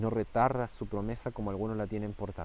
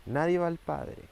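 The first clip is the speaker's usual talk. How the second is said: louder and much higher, ringing; forceful proclamation; 6 semitones higher, 4 dB louder than usual. Acted. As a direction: call it out again to the church. Preacher repeats proclamation.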